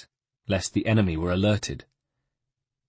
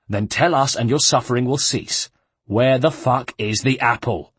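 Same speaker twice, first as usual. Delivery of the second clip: a louder, harsher interrogator; menacing guard; 6 semitones higher, 3 dB louder than usual. Acted. The lead guard interrogates the monk, louder and menacing. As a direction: lean in and demand it, threatening.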